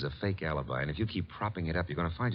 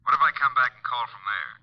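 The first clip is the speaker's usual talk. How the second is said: urgent and hurried; 4 semitones higher, 5 dB louder than usual. Acted. Urgent phone call after finding body.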